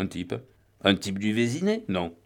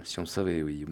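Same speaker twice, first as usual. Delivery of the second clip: put-on softer, hushed and drunk; 4 semitones lower, 9 dB quieter than usual. The gentleman dreaming aloud to the Bouc about the money, hushed. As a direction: keep it low, like sharing a secret. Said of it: "chuchota le gentleman".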